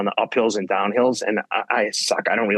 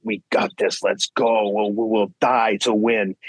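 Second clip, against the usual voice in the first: slower, steady inner alpha voice psyching himself up; lightly voiced inner drill sergeant, a touch slower; slower than usual. Runner voicing his inner alpha voice to the host, slower and steady. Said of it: "the alpha voice that's like".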